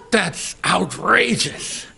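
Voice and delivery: playing his indignant mother, laughing through it; outraged mother. Son retelling his mother's outrage, mock indignant with laughter. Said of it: "And she said".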